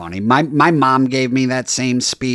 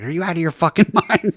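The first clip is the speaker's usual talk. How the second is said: indignant woken mom; 5 semitones higher than usual. Retold or imitated. Mom woken at midnight for ride.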